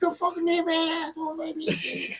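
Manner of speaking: high, far-off mock yelling son; squeaky mock of a son cursing at a game; imitating son gaming. Father mimics gaming son's curses in high voice. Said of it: "He's like".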